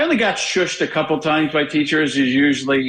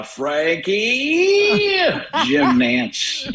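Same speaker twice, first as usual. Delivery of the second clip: Nantz greeting; 9 semitones higher, much slower than usual. Retold or imitated. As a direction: greet him like a TV anchor. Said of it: "he started out with".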